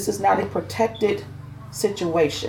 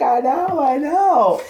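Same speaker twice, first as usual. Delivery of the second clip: proud sassy reply; 9 semitones higher, 5 dB louder, much slower than usual. Retold or imitated. Her proud reply to praise.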